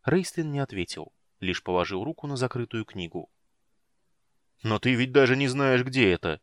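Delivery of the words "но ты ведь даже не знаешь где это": louder, higher grumbling objection; object, irritated and raised; displeased. Acted. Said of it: "недовольно заметил великан".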